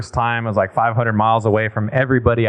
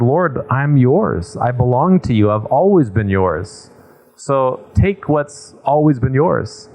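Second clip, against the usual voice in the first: slow, hushed surrender to God; tender prayer; slower than usual. Retold or imitated. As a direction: lay it down gently, word by word. Priest quotes dying friend's prayer.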